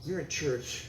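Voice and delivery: hissed reprimand in church; a wife's whispered telling-off, unvoiced; mock hushed hiss; hushed scolding wife. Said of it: "She said".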